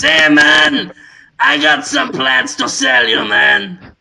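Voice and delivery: high, loud laid-back stoner drawl, man; Cheech Marin impression. Shopkeeper selling a plant to Adam, laid-back stoner voice. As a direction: channel a mellow hippie shopkeeper. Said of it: "That's a shockingly good Marin".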